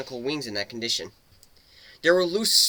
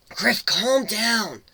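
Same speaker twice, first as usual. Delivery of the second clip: begging; 8 semitones higher, much slower than usual. Acted. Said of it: "Gilda begged".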